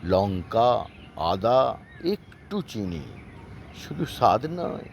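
chopped, word-by-word rhyme recital; staccato. Acted. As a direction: recite the rhyme in clipped chunks. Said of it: "আমি কেটে কেটে বলবো".

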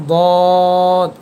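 দদ said loud and heavy from the tongue side; thick emphatic দদ; Arabic letter demo. Shown as a demonstration. Teacher introducing letter দদ aloud. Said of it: "এর পরের হরফটি".

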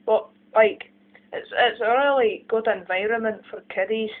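put-on Scottish accent. Shown as a demonstration. Demonstrating accents as a Scot praising Scotland, Scottish accent. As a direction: talk about home like a Scot.

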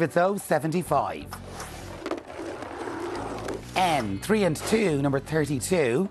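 slow, measured bingo calls; bingo caller. Acted. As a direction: call each number out clearly with pauses.

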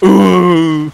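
Leon's wounded moan as a seal; dying seal groan. Retold or imitated. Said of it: "He's like".

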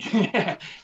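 short, high scoffing laugh; imitated laugh. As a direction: mimic the recruiter laughing it off. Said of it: "he laughs and he goes".

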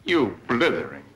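furious string of insults; angry tirade. Acted. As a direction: spit out each insult.

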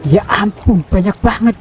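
overwhelmed by a swarm of monsters, high alarmed squeal; high alarmed disbelief. Real, not acted.

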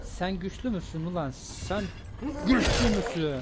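high, loud mocking challenge; taunting shout. Real, not acted. Gamer taunting a strong zombie, shouting. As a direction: scream the dare at the big one.

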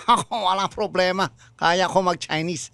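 hint of Chinese accent. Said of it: "yung accent na".

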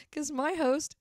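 loud, high, drawn-out mock complaint; mock outrage. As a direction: call out the co-host in playful indignation, slowly. Teasing co-host for yawning on air.

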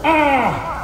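quick ah of pain; a short yelp as if poked. Shown as a demonstration. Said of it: "can you just do like, go".

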